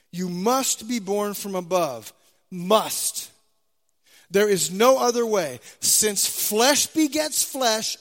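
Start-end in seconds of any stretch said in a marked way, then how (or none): 0.1-3.3 "must" stressed, then repeated alone as a falling, separate word. Shown as a demonstration. Preacher driving home the verse's key word, stress on "must". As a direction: hammer home "must", then say it once more by itself. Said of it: "emphasizing the word must".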